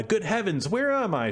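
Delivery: Snow White waking, pitch leaping up in surprise; startled cry. A narrator's reading. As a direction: gasp it out as she wakes in shock. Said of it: "she cried out".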